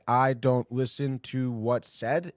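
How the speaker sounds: slow, disbelieving echo of the quote; slow incredulous repeat. Shown as a demonstration. Host mocking a ballplayer's quote, slow and disbelieving. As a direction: repeat it slowly like you can't believe it. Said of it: "Is that the declaration?".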